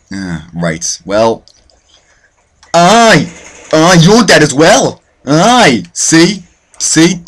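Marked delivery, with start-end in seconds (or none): 2.7-7.2 high, loud crowing; triumphant taunting. Real, not acted. Gamer gloating at fresh kills, high triumphant taunts. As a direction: crow over each kill.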